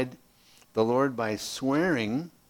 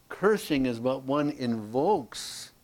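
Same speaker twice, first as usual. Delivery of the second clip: slow dictation; slower than usual. Shown as a demonstration. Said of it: "I didn't put all that on your handout".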